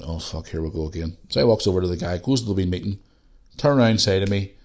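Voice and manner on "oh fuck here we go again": inner thought. Retold or imitated. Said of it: "And I'm thinking".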